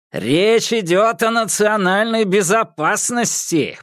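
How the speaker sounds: high urgent shout. A narrator's reading. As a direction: yell it over the roaring fire. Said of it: "прокричал Хейнс".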